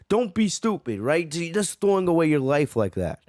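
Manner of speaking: high scolding quote; mock scolding. Scolding Granola for throwing his life away, high scold. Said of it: "Granola's like".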